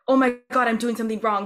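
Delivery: imitating her anxious past self; panicked old self. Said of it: "old me would be like".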